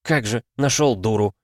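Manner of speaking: a hint of a contemptuous snort; mild dismissive huff; snorting scorn. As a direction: scoff at him. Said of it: "фыркнула гончая".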